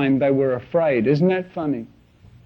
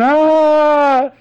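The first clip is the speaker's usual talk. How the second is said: high, loud wild mock scream; maniac scream; 9 semitones higher, 6 dB louder than usual. Preacher acting out the Gadarene maniac, wild high scream. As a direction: let out a wild madman's howl. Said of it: "he came running down".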